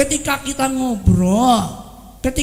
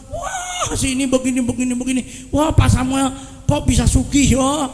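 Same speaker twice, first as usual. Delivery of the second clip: gossip voice. Retold or imitated. Gossiper mocking a rich neighbour.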